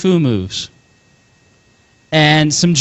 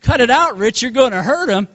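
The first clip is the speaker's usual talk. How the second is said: higher-pitched, mild mock yell; mom's yell, retold; 6 semitones higher than usual. Mom yelling at dad to protect her son, mild imitated yell. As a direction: retell the yell lightly, without extra volume. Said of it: "my mom was yelling at my dad".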